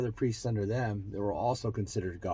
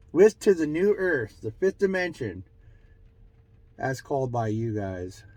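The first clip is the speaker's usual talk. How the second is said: channeled message; 3 semitones higher, 5 dB louder than usual. Acted. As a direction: relay it as a spirit's pronouncement. Answers as channeled spirits.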